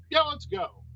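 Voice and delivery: high-pitched mock casual urging; retold nervous bail-out. Nervous patient to wife before surgery, high-pitched urging.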